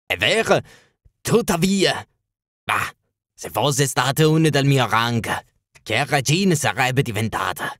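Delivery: a king sighing over a lost queen; wistful king. Acted. King wistful about Irene.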